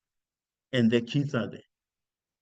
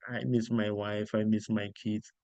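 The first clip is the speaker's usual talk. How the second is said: softer, lower, a little self-pitying; mock homesick whine; 5 semitones lower, 5 dB quieter than usual. Lightly hammed-up homesick whine to his Saudi colleagues. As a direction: play the soft homesick sissy boy. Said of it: "I'm a sissy boy".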